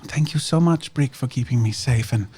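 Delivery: put-on girl hugging Brick and thanking him, earnest; Medela's voice. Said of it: "throws her arms around him".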